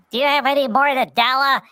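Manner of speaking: lightly voiced shy hedgehog; Pudgy voice. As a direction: ask shyly after the stutter. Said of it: "and Pudgy's like".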